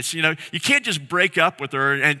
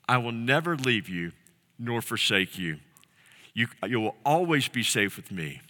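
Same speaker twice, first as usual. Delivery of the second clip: tender promise; 4 semitones lower, 4 dB quieter than usual. Acted. God's promise voiced tenderly.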